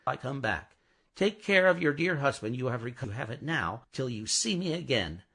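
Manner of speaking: brisk fussing English nanny; a hint of a bustling maid; fussy old housekeeper. Miss Pross speaking.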